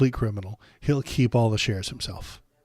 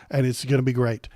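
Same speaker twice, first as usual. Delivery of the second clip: sarcastic. Shown as a demonstration. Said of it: "I'm being s-, sarcastic".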